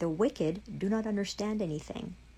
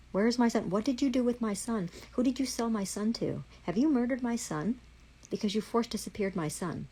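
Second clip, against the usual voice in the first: raised, higher furious questions; angry demand; 4 semitones higher than usual. Real, not acted. Demanding officials say where her son is, angry raised voice. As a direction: hammer each question at them.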